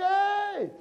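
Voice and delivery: very high, drawn-out holler; screamed call. Acted. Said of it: "somebody else scream".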